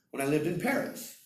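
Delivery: "Paris" lifted above the other words; stress on Paris. Shown as a demonstration. Teacher correcting Berlin to Paris, stress on Paris. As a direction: make "Paris" the word that matters. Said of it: "not Berlin".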